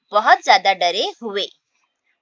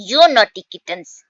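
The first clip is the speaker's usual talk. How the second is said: slow, louder scolding; scolding cat; 5 dB louder, much slower than usual. Acted. Teacher voicing the mother cat scolding her kittens. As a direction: tell off the naughty kittens. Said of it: "फिर cat उन्हें डांटती है".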